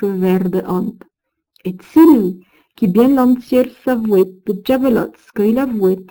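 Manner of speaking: put-on measured Old French verse recitation; verse reading. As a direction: read the old poem with weight and rhythm. Reads Old French verse aloud.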